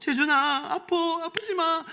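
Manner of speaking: very high-pitched mother voice. Demonstrating how a mother speaks to her child Jaejun, in a high-pitched voice. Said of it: "고음으로".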